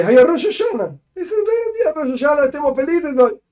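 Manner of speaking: high, laughing cheer about the holiday; rising laughing delight over Rosh Hashanah; laughing joy. Acted. Acting out joyful holiday.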